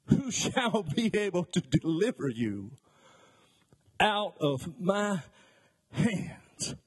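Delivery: a high, slow, shouted challenge from a proud king; booming king's taunt. Acted. Preacher acting the king taunting the Hebrew boys, booming. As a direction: thunder it out like a tyrant daring God.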